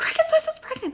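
put-on frantic freaking out, very high. Speaker retells telling Greg about the test result, retelling freaking out. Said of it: "So I'm like freaking out".

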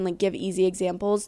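ordinary talk

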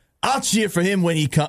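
attempted Boston accent. Quoting a fan's remark during a podcast chat, in an attempted boston accent. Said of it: "Does that sound like Boston?".

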